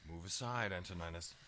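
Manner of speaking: low-key, firm order; controlled command. Acted. Father orders Antoninus out of the way, controlled. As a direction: order him aside without raising the voice.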